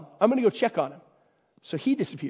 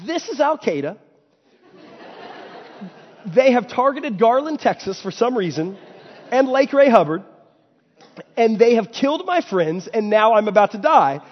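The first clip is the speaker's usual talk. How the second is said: mock panic; 3 semitones higher than usual. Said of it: "he thinks".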